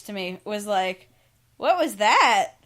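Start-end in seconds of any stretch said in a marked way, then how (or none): 1.6-2.5 startled coworker. Retold or imitated. Startled coworker's question retold.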